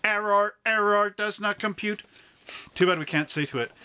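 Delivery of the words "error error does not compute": raised-pitch Star Trek robot voice; glitching robot. Retold or imitated. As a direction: glitch like the Nomad probe. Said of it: "Star Trek ... with Nomad".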